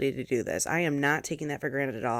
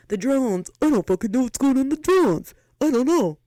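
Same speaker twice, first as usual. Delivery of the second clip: exasperated outburst; 8 semitones higher, 7 dB louder than usual. Real, not acted. Exasperated rant about drones.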